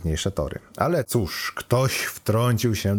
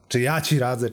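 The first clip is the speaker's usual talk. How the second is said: rhetorical echo; 5 semitones higher than usual. Acted. Computer asked for advice questions it back, rhetorical echo. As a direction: question thrown back, moderately pitched.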